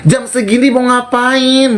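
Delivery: cornering her with questions; retold confrontation. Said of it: "Gue bilang".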